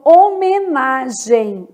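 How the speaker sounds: "homenagem" slowly sounded out, final m like i; slow, careful "homenagem", o-me-na-gem; measured syllables. Shown as a demonstration. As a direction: say "homenagem" syllable by syllable, ending in a glide. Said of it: "um M com som de I".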